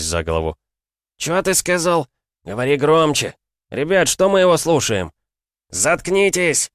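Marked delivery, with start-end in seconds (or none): 1.2-5.1 higher, louder mocking thug; rowdy thug voice. Thug provokes the narrator. 5.7-6.7 higher, slow drawn-out yell. A narrator's reading. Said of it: "заорал я".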